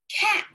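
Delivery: cat said slowly and high, sound by sound; teacher modelling "Cat." for segmenting; drawn-out word demo. Shown as a demonstration. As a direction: stretch out "Cat." while sliding the arm down. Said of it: "Say it with me".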